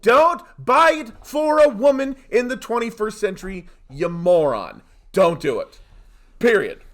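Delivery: loud, scolding rant; scolding shout. Real, not acted. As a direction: yell it at the listener. Scolding listeners on gifts.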